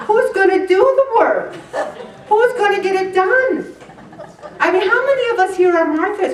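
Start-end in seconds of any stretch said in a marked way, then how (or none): 0.1-3.7 higher, louder, fed-up; worked-up complaining; exasperated Martha. Retold or imitated. Martha doing all the work, higher louder exasperation. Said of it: "Because I'm thinking".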